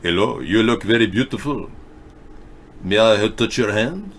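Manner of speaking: a hint of a mock Italian accent; lightly voiced Italian charmer. Crooning to women in a mild Italian accent. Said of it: "I work on my Italian accent".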